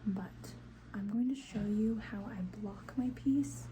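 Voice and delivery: hushed voice so nobody wakes; whispering. Real, not acted. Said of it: "I have to whisper 'cause the kids are sleeping".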